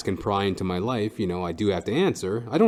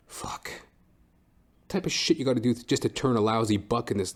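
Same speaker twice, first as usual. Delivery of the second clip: ordinary delivery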